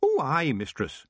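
chirpy Scots reply to the boss; cheerful Scottish Feegle. Acted. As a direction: Rob answering Tiffany, cheery Scottish accent. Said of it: "said Rob cheerfully".

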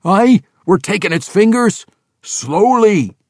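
high gruff dwarf voice, sly and pleased; young dwarf gloating over a prisoner; grinning young dwarf. Acted. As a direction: savour the threat with a grin. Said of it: "young Rollo said with a grin".

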